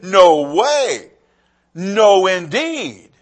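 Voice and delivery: emphatic refusal, each NO punched; firm NO WAY, then a separate NO, INDEED falling at the end; Elizabeth, emphatic. Retold or imitated. Mother refusing the community's choice of name, emphatic. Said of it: "And so she's emphatic".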